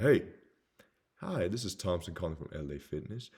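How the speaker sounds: mock scripted caller; cold call script. Shown as a demonstration. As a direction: read out a stock script by rote. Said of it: "a cold call script like".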